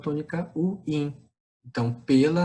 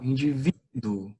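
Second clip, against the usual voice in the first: "Indivíduo" said slowly, leaning on "ví"; pronúncia demonstrativa; slower than usual. Shown as a demonstration. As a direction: stretch "Indivíduo" to show the stressed "ví". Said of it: "Vamos fazer a pronúncia". ("Indivíduo" devagar, com tônica no "ví")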